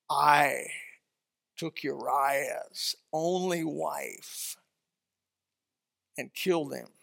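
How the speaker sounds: soft, very slow broken confession; a man crushed by his guilt; remorseful. Acted. King quietly admitting his sin.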